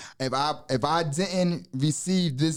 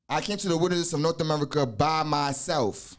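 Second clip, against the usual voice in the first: deliberate quoting of a memorized lesson; measured recitation. Real, not acted. Teacher quoting a degree to explain it, measured recitation. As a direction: recite it evenly, giving each phrase room.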